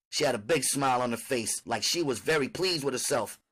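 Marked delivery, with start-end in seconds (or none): none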